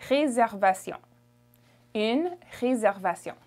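"Réservation" in French, S as Z; French pronunciation. Shown as a demonstration. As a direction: model "Réservation" with French R and nasal ending. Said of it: "The S makes a Z sound".

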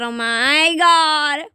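slow panicked cry; scared horror game streamer. Real, not acted. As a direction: wail it out in fear. Zombies chasing him.

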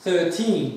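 put-on "Thirteen" with a stressed, drawn-out "teen" ending; modelled "Thirteen" with a clear teen. Shown as a demonstration. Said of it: "Teen diye bitiyor sonu".

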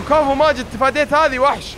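mock praise. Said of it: "بيجيني واحد يقول".

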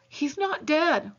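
slow, drawn-out, sorry tone; apologetic. Acted. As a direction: say it slowly, like apologising for the fuss. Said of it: "Levi said apologetically".

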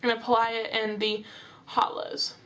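talking with cheeks sucked in. Real, not acted. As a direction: say it with a fish face. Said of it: "suck in my cheeks like, like a fish".

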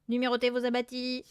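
droning husky spook voice; veiled, hoarse. A narrator's reading. Hidden parrot spooking the family, veiled and hoarse. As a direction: intone it hoarsely on one note. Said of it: "voilée et rauque cette fois".

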